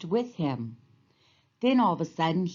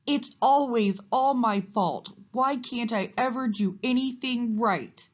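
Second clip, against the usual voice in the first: wailing; 6 semitones higher than usual. A narrator's reading. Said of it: "wailed Moose".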